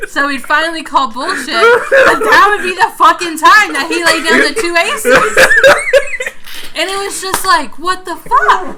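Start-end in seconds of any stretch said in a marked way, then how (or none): 1.5-8.8 loud laughing outburst; laughing loudly. Real, not acted. Retelling Brian's aces, laughing loudly. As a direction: laugh through the punchline.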